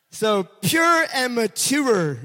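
"pure" and "mature" drawn out slowly and loudly; his family's favourite words. Shown as a demonstration. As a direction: lean into "pure" and "mature", stretching each. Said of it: "that's what they say".

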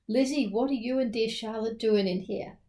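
put-on light Southern US accent. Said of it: "says in a southern accent".

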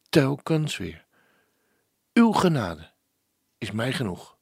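hushed, devout reading with falling phrase endings, dropping to a whisper on o Heer; prayerful recitation. Acted. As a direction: pray the lyric aloud. Presenter repeats the lyrics as a prayer. (biddend voorgedragen liedtekst)

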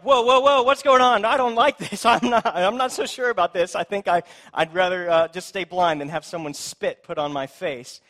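startled blind man balking at spit on his face; alarmed protest. Pretend. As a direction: recoil in nervous, laughing alarm.

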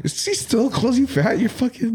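shocked disbelief. Real, not acted. Shocked at dad calling him fat.

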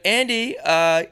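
high, loud British parent calling; British mum voice. Pretend. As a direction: call upstairs like a British mum.

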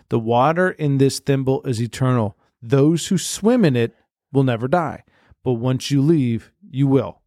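slow, solemn reading of a magic note; spooky inscription read out slow; mock ominous note. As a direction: read it like an ancient curse, slowly.

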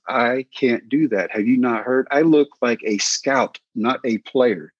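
slow, drawn-out objection; retold refusal, slow and deliberate; emphatic protest. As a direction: stretch the words out in protest. Retold protest to players' challenge.

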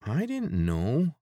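high, loud, slow whine; whined. A narrator's reading. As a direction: whine it like a scolded guard. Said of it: "the voice above whined".

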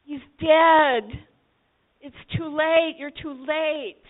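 slow, reproachful grief; lightly voiced grief of a sister; grieving sister. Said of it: "And the sisters".

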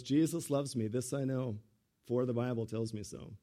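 soft, low, reverent quote; quiet reverent recital; hushed old man's words. Retold or imitated. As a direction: speak it gently like a dying wish. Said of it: "He goes".

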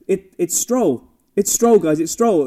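exasperated correction. Retold or imitated. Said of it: "they were like".

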